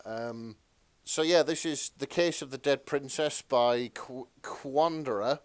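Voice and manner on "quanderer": Quanderer said as KWAN-der-er, rising at the end; chosen pronunciation. Shown as a demonstration. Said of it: "That's how I'm choosing to pronounce that".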